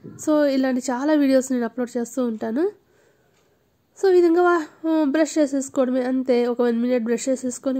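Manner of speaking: toothbrush in mouth; foamy mouth, lips around brush; brushing teeth while talking. Real, not acted. Seen 2: Brush in mouth at 0.1 and from 1.6; briefly out between.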